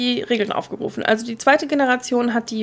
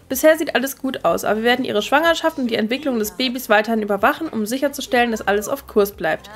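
doctor reading. Acted. Reads doctor's in-game text.

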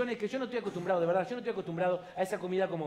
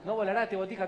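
regretful parent's thought; 2 semitones higher, slower than usual. Acted. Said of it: "Y piensan por dentro".

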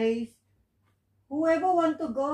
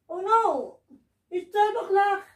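panicked, higher and urgent; alarmed; 5 semitones higher, 4 dB louder than usual. Pretend. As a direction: cry out in a sudden panic. Midnight strikes at the ball.

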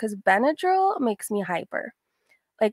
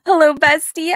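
excited greeting; 9 semitones higher, 11 dB louder than usual. Real, not acted. Host greeting her stream viewers with loud excited cheer. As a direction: welcome the whole chat like a party host.

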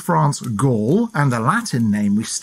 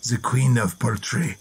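put-on French accent; 3 semitones lower, 3 dB quieter than usual. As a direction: play it up as a French gourmand, in a French accent. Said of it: "I'm going to do an accent here".

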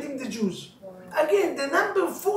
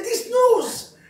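high, loud ranting outrage; the father screams at the doctor about another girl; screaming complaint; 5 semitones higher, 5 dB louder than usual. Retold or imitated. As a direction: yell it at the doctor. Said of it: "why are you screaming?".

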